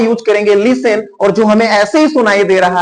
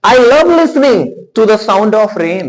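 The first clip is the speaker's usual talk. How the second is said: slow, careful English example; deliberate teacher read; slow example sentence; much slower than usual. Shown as a demonstration. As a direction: stretch each word for learners. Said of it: "आप सुनना नहीं चाह रहे हैं".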